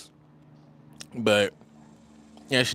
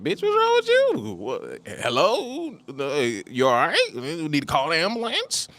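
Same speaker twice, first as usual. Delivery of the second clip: incredulous mock outburst; 6 semitones higher than usual. Client telling the staring wife he's baffled, high and incredulous. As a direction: act out the shocked reaction, pitched way up.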